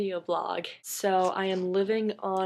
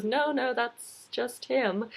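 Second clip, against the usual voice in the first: higher, lightly acted British wise man; British accent; 4 semitones higher, slower than usual. Third wise man correcting Mandy, light British accent. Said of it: "in a British accent".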